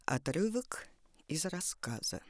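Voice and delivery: breathy whispered aside. Acted. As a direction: whisper the subtitle. Whispered title note.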